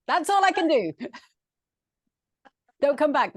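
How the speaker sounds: high, giggly laughing voice. Real, not acted. Colleague giving up after her villain impression, laughing. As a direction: talk through laughter at your own silliness.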